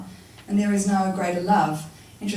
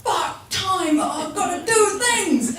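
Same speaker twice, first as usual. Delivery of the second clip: high, slow, laughing shout; panicked realisation; 10 semitones higher, 4 dB louder, much slower than usual. Retold or imitated. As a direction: suddenly realise time is short. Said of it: "you're like".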